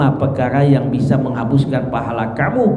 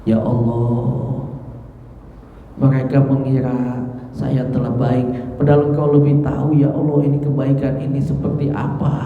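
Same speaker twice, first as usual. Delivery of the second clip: tearful prayer. Retold or imitated. Abu Bakar praying in fear after hearing praise, mildly tearful. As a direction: pray humbly, a touch of tears.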